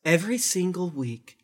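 slow, solemn cult leader. Acted. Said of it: "you have to turn off your cult leader voice".

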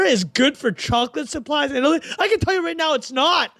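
too much caffeine. Real, not acted. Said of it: "I'm wired right now".

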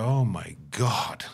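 slow, drawn-out mock horror; imitating someone overdoing shock; a hammed-up "Oh my God"; mock shocked gasp. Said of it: "sit there and go".

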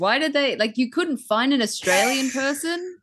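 high-pitched, baffled rant; mock exasperation. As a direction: protest as if the answer were blindingly obvious. Retold reaction to fake-sounding Australians.

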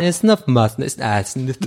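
Laute rückwärts nachgeahmt; Rückwärtssprechen. Pretend. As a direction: als liefe ein Band rückwärts. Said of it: "was du gerade rückwärts gesagt hast". (Silben rückwärts gesprochen)

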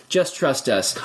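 low repeat. Retold or imitated. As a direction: drop the pitch and say it again. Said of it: "And they're like".

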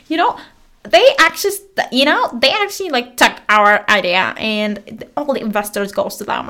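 mock a man griping as if to a close friend; venting to a friend. Investor-seeker griping to her like a friend, lightly mimicked venting. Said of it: "the way he was talking, he was like".

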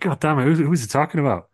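Stone Cold impression.

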